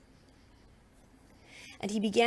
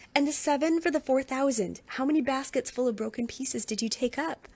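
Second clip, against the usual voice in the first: higher, insistent voice; exasperated questioning; 4 semitones higher than usual. Acted. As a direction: drive the question home. Jesus questioning disciples again.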